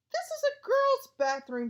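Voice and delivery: a sulky ghost shrilling at intruders; ghost girl voice. Acted. Ghost girl scolds boys in her bathroom, high whiny voice.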